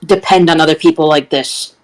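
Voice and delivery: low, stern admonishment; cold warning. Acted. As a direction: deliver it as a cold threat. Character coldly intimidates a crying girl.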